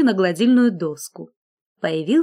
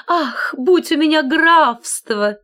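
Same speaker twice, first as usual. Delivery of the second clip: higher, slow dreamy wish; longing sigh; 7 semitones higher, 4 dB louder, slower than usual. A narrator's reading. Collar wishing aloud to the scissors, higher and slow. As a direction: sigh for a county.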